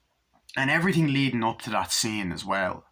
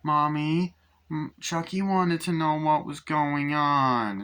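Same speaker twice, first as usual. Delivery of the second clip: put-on child voice; 5 semitones higher, slower than usual. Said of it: "Andy's like".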